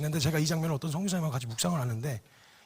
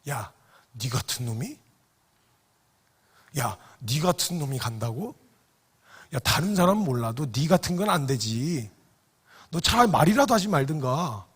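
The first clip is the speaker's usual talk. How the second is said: conscience shouting; 7 dB louder than usual. Retold or imitated. Peter's conscience screaming at him, growing to a furious shout. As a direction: berate yourself, rising to a yell. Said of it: "지 양심에서 소리 질렀을 거예요".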